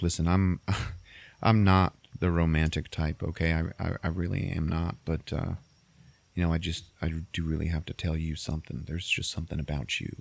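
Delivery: hesitant, low-key mock heart-to-heart; tender confession. Man confessing to the woman who drove him home, tenderly. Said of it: "they have this tender moment".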